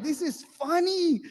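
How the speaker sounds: loud, very high, drawn-out insistence; acted outburst, stretching the words in protest; insistent protest. Husband defending his laughter to his wife, high loud protest.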